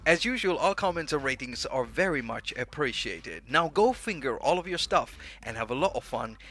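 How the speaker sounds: slightly British sign-off; lightly British-accented show outro. Shown as a demonstration. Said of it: "I still say it with a British accent".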